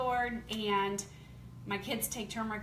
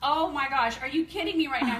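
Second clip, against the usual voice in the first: excited; 3 semitones higher, 6 dB louder than usual. Retold or imitated. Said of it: "I'm like".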